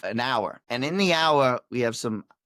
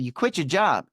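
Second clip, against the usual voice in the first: excited; 4 semitones higher than usual. Retold or imitated. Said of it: "So I get excited".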